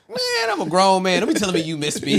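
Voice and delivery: mock indignant, laughing. Laughing as he replays his reaction to his friend's text. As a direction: laugh while playing offended.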